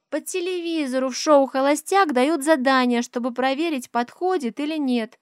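put-on high, loud little girl's explanation; high child's voice; explaining child. A narrator's reading. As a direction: explain it eagerly like a small girl. Child explains Bachelor show.

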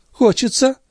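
high, scornful lady's voice; mocking high echo. A narrator's reading. Andrea mocks Gilbert's question, scornfully. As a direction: throw the word back at him.

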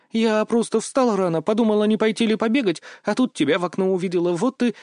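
put-on a girl rushing through an excuse; lightly voiced girl, flustered. Mia's voice held. (слегка девичьим голосом, оправдываясь)

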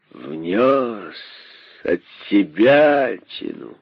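медленно, с горькой издёвкой повторяет «Внёс от себя тяну»; растяни «себя», язвительно и горько; горький сарказм. Acted. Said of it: "с горестным сарказмом повторил король". (король с горестным сарказмом передразнивает находчивого, медленно)

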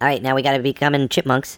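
squeaky sped-up chipmunk voice. Pretend. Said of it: "let's get out of our chipmunk voices".

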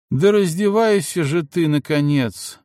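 high, loud, impatient begging; impatient plea. A narrator's reading. The maid begs Федька to undress, loud and impatient. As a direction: urge him, exasperated and loud. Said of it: "взмолилась служанка".

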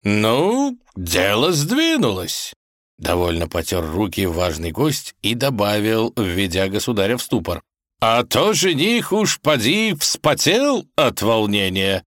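put-on jolly old kaiser; pleased kaiser. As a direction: rub your hands with glee. Kaiser gloats, rubbing hands.

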